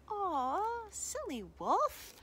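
high, drawn-out chiding; mock pity. Boy scolding the returned wolf, high mock pity. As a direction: coo it slowly, as to a silly pet.

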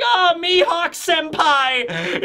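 put-on high, slow, shouted fan-girl cheer. Crew members greeting Crocodile, shrill adoring shout. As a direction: squeal his name like an adoring fan. Fans cheer new executive.

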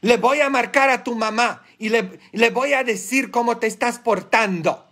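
re-enacted stern warning, rising in pitch; retold warning to prisoners. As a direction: threaten to tell their mothers, scolding. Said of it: "les decía".

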